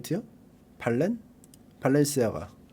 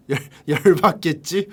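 laughing mock designer. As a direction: imitate a scheming designer while cracking up. Imagines designer, cracking up. (웃음 섞인 디자이너 흉내)

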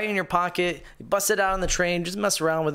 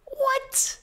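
stunned what. Real, not acted. Disbelief at the price.

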